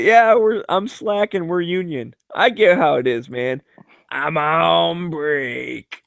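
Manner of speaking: a slow, lazy drawl trailing off on break; a lightly voiced union worker; union guy impression. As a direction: play the slacker who shrugs it off. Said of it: "I only do that impression".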